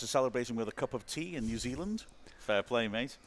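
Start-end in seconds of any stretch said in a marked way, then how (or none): 2.4-3.2 Antipodean accent slip. Real, not acted. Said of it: "didn't mean to put on some sort of weird Antipodean accent".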